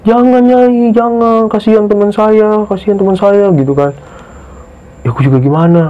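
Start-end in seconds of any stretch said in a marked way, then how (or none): 0.1-3.5 high, drawn-out wailing plea, imitated; mock tearful pleading. Retelling Ana begging Nyai to spare a friend, mock tearful pleading. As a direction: imitate a crying girl begging for mercy. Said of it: "Nangis, Bang, temen gue cewek".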